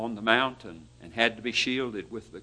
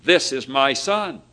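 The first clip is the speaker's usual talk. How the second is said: proclaimed a touch louder, presenting him; proud presentation; 5 dB louder than usual. Retold or imitated. God presenting his Son, proclaimed a little louder. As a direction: hold him up and announce it. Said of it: "He was presenting him".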